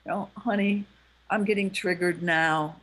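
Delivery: low-key, tender appeal to a partner. Acted. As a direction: gently own up to a hurt. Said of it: "you're coming from a softer voice".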